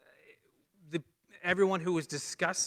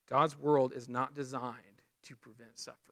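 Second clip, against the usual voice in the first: lower, deliberate, fading to near silence; slow, grave emphasis on God's world is not designed; said slowly; 4 semitones lower than usual. Shown as a demonstration. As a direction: lay each word down slowly so it sinks in. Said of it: "Let me say this slowly".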